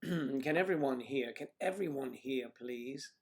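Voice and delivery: rough, gravelly throat after clearing. Real, not acted. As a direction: speak through a gravelly, croaky throat. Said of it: "My gravelly voice this".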